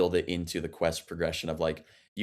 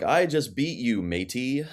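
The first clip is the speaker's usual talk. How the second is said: bland pirate voice; 5 semitones higher, slower than usual. Retold or imitated. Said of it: "the most white guy voice ever reading, like, piratey lines".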